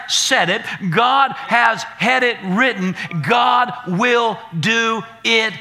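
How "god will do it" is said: rally the room, push every line out; preaching at full force. Acted. Pastor lifting the congregation into praise, preaching full force.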